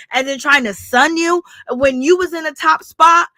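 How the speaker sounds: ordinary talk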